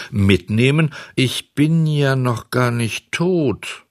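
high, slow disbelief; stretched, high-pitched alarm; alarmed protest. A narrator's reading. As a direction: protest in dismay that you're still alive. Boy protests to the coffin-bearing hares.

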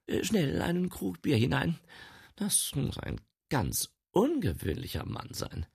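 high, fussy housekeeper; flustered housekeeper. Acted. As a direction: hurry the maid along.

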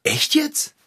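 hoch und ungläubig nachgefragt. Acted. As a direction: kaum glauben, was er hört. Ungläubige Rückfrage. (ungläubiges Nachfragen)

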